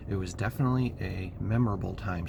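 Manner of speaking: hoarse, barely-there voice. Real, not acted. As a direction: voice worn out from shouting. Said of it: "I have no voice 'cause I've just been talking so loud".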